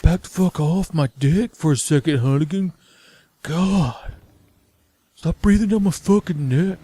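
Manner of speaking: fed-up agent snapping at his handler; annoyed Leon. Retold or imitated. Leon snapping at Hunnigan to back off, mock annoyed. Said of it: "And Leon's like".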